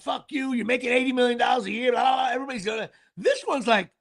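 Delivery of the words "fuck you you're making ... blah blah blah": fast, half-shouted fan rant; mock angry fans. Imitating fans yelling at striking players, mock angry rant. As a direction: rattle it off like a pissed-off fan. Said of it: "Everyone's like".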